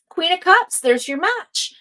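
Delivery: high, loud card reveal; excited reveal. Real, not acted. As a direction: announce the card with delight. Card turned over, excited reveal.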